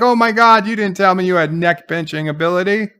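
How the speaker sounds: high, then rushing on quickly; amazed gush. Retold or imitated. Dahl marvelling at Spock's neck pinch, in a high, quick gush. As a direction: gush at him in wide-eyed awe. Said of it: "So Dahl is like".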